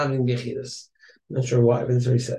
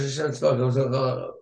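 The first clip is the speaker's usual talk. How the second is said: slow, drawn-out chant of Hashem Tzvaot; said as one flow; much slower than usual. Shown as a demonstration. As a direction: stretch Hashem Tzvaot out slowly as one phrase. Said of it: "You should say it as, like, a hemshech".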